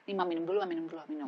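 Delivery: whispered, gentle offer of a drink; hushed caring child voice; soft coaxing whisper. Retold or imitated. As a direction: coax her quietly with a drink. Child coaxing mother softly.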